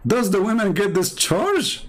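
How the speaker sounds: high, drawn-out question after a chuckle; smiling amused question. Retold or imitated. Debater quoting Umm Salama's smiling question to the prophet, amused. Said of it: "Umm Salama smiled, said".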